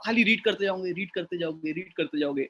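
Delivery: just reading on. Shown as a demonstration. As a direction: rattle it off like reading a paragraph. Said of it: "तो वो चीज़ नहीं रहती है".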